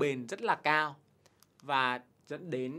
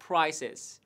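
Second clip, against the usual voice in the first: slow, careful quote of the woman; quoting the woman slowly; 2 semitones higher, much slower than usual. Retold or imitated. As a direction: read the woman's line slowly. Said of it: "Người phụ nữ bảo rằng là". (trích lời người phụ nữ, đọc chậm)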